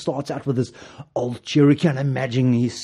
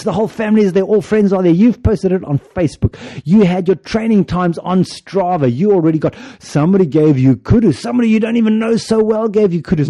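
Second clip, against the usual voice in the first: building excitement; 3 semitones higher, 6 dB louder than usual. Pretend. Building race-day excitement.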